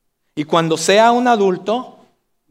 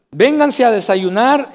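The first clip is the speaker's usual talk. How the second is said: drawn-out call, "Vénganse a desayunar" slow and raised; mom calling to breakfast; 6 semitones higher, 5 dB louder than usual. Retold or imitated. Preacher imitating his mom calling the kids to breakfast, slow raised call. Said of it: "mi mamá decía".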